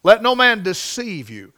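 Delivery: "deceive" hit firmly as a warning; stress on deceive. Shown as a demonstration. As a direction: preach it with emphasis on "deceive". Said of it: "I wanna put some emphasis on that word".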